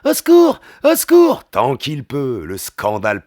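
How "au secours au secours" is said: high, loud screaming for help; cry for help. Acted. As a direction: scream for rescue. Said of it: "qu'il recommence ses appels".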